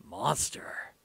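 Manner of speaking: cold, scornful whisper. A narrator's reading. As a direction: ask it with icy scorn. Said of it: "said Bardock coldly".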